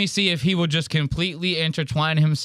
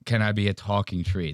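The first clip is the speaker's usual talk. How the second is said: quieter, lower mock of her plea; softer mocking repeat; 4 semitones lower than usual. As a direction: toss her line back under your breath. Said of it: "That was a hilarious message".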